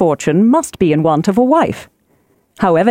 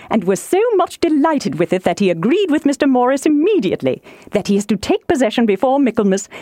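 lightly voiced eager wife, lilting; a hint of an excitable matron; gossiping wife; 3 semitones higher than usual. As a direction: pass on the news as a chattering wife. Voices gossiping Mrs Bennet.

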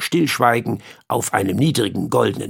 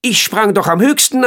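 high, louder insisting flea voice; 8 semitones higher, 5 dB louder than usual. Acted. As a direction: repeat it as a stubborn little flea. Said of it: "sagte der Floh".

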